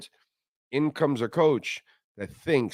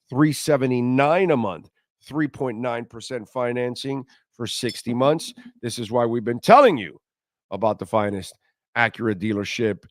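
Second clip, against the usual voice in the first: upbeat sponsor read, names stretched out. Acted. Host reads the car dealer ad to listeners, upbeat ad read. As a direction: sell the dealership like a radio spot.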